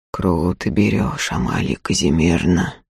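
low muffled voice. A narrator's reading. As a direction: say it dull and low. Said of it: "глухо повторил он".

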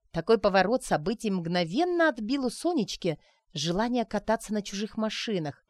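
ordinary delivery, nothing marked

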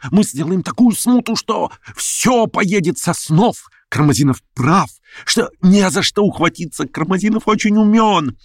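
high, excited rant; feverish plotter. A narrator's reading. Verkhovensky raving to Stavrogin about revolt, high and feverish. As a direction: rave about the uprising.

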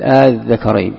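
آ الذكرين with the second hamza eased; tasheel. Shown as a demonstration. Teacher giving an example of tasheel, eased hamza in آ الذكرين. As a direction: run آ smoothly into الذكرين without a second glottal stop. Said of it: "يسمى التسهيل، مثل".

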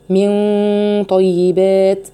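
slow طيبات with heavy ghunna; heavy nasal ghunna demo. Shown as a demonstration. Teacher shows students the heavy ghunna. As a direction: linger on the hidden nun before طيبات. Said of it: "الحكم هنا إخفاء حقيقي".

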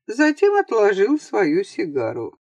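normal talking voice

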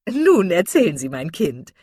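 put-on loud, hearty older woman; hearty old matron. A narrator's reading. Mrs Jennings greeting the Steele sisters, loud and hearty. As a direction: boom it out like a jolly matron.

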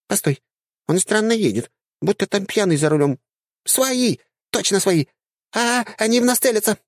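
put-on high, squeaky girlish chatter; squeaky dryad. Dryad spots tank.

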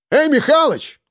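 high call across the market. A narrator's reading. Shulgin calls out to Mikhalych across the crowd. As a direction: call his name sharply. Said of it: "крикнул Шульгин".

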